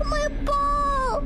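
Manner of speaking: high, breaking into laughter; laughing wail. Real, not acted. Streamer reacts to the ball, wailing with laughter. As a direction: wail it through helpless laughter.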